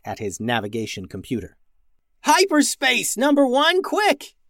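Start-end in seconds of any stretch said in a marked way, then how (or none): 2.2-4.4 high, urgent out-of-breath order; breathless yell. A narrator's reading. Max yells at the robot to jump to hyperspace, out of breath. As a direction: gasp out the command. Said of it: "yelled Max, out of breath".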